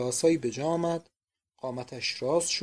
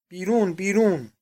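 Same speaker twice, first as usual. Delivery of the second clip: shouted order; 3 semitones higher, 5 dB louder than usual. A narrator's reading. Painter chasing the spy out.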